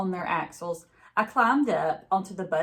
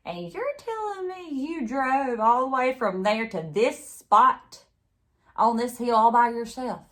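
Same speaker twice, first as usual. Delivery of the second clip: higher, louder incredulous question; disbelieving sheriff; 5 semitones higher, 5 dB louder than usual. A narrator's reading. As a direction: hit spot hard in disbelief. Sheriff disbelieving girl's story.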